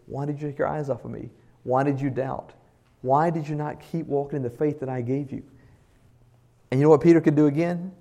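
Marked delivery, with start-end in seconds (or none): 0.1-5.4 soft, gentle questions, no blame; tender rebuke. Acted. Jesus gently questions Peter after pulling him up. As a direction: ask it softly, like lifting a child up.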